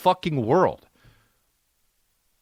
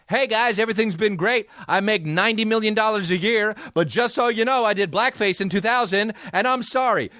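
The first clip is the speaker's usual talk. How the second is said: lightly higher, chatty celebrity voice; Jimmy Fallon; 6 semitones higher than usual. Acted. Star volunteering an apology to his fans, mock-chipper. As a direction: breeze cheerily into a confession. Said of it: "would Jimmy Fallon be like".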